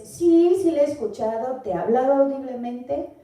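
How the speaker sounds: a bright, eager sí, sí, mock listener reply; eager yes answer. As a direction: answer sí like an eager believer, lightly voiced. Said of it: "Y si dices".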